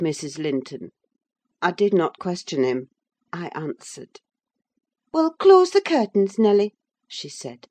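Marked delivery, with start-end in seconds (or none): 5.1-6.7 high, louder mistress voice; voiced lady of the house. A narrator's reading. Mistress tells her servant to close up, high and commanding. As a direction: give orders in the mistress's high voice.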